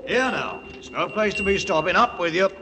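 fast, firm driving calls; muleteer's urgent coaxing; urging on. Acted. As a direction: push them on, no nonsense. Urging the beasts up the mountain.

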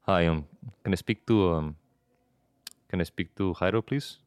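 lightly disguised, understated caller voice; believable human. Shown as a demonstration. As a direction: ask casually like a real stranger phoning. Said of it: "gotta sound like an actual human".

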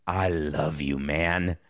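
low, soft heartfelt declaration; low sincere buddy love. Shown as a demonstration. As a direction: say it like you mean it, gently. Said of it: "I wanna hear the emotion".

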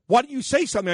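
mock astonishment, pitch jumping up; retold incredulous question. Cop to the host he just arrested, retold high incredulous question. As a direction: imitate a cop asking in high-pitched disbelief.

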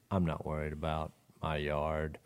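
low, soft retold reassurance; calm reassurance. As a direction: settle the upset driver down, quietly. Reassuring the upset girl.

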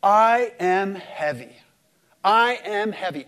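lightly voiced God, weighty and deliberate. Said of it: "God is saying".

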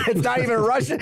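high, loud laughing exclamation; it's not even Russian, said loud with a laugh; amused outburst. Real, not acted. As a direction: blurt out the punchline, cracking up. Punchline about French grocery chain.

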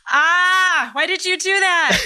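high, tearful cry of surprise; real tears, voice breaking up high; overwhelmed by the husband's answer, crying; choked-up crying. Real, not acted. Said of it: "you were gonna cry about it".

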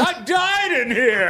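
slow, loud ghostly moan. Acted.

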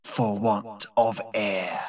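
slow bitter whisper. A narrator's reading. Old servant Zaroba answering her master, slow hushed whisper. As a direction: breathe it out, hushed and hurt.

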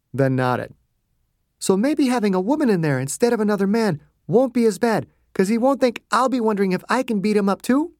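doctor explaining male pride to the guard, wry; Margaret reasoning. A narrator's reading. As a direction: explain it lightly, a bit amused.

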